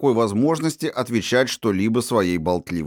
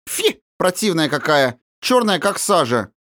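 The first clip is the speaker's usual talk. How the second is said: disdainful; 8 semitones higher than usual. A narrator's reading. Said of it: "презрительную гримаску".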